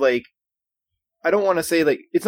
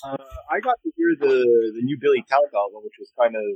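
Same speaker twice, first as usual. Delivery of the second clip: distant, muffled voice; far-off bad connection; through a wall; 3 semitones lower, faster than usual. Real, not acted. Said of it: "you sound so far away".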